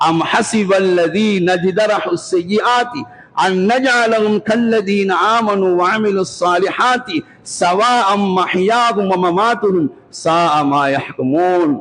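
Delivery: measured Arabic scripture recitation; Quran recitation. Acted. Preacher quoting the verse the saint wept over, recited in Arabic.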